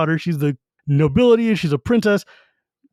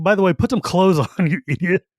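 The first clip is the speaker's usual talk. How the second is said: laughing scold. Retold or imitated. Ray scolds a naked Carmon.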